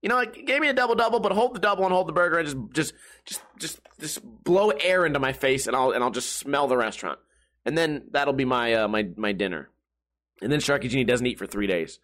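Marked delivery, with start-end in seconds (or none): 0.0-9.7 mock customer. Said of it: "they're like".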